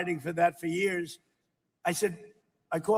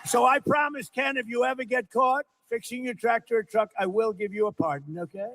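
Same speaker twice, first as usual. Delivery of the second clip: raised, emphatic joking pledge; rally-crowd boast, louder and higher; loud playful promise; 4 semitones higher, 4 dB louder than usual. Real, not acted. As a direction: call it out big to Ken, half joking. Jokingly promises Ken a pardon.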